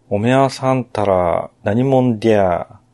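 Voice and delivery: slow, drawn-out Nagoya-dialect villain question; a lightly voiced Nagoya boss, slowly. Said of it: "なぜか名古屋弁です".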